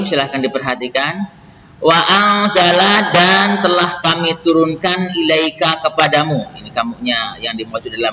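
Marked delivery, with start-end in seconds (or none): 1.8-6.5 verse recital. Acted. Reads verse with translation.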